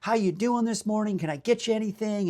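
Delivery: playful Southern hospitality voice; Southern accent. Retold or imitated. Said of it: "He's got the Southern accent".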